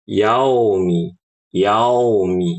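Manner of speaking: yaumi with the mouth opened too wide; wrong wide yaumi. Shown as a demonstration. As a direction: gape on yaumi. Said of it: "Ini salah".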